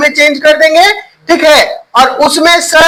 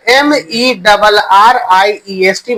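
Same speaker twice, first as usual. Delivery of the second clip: slow spelling out; 3 semitones lower, slower than usual. Shown as a demonstration. Teacher spells word for class.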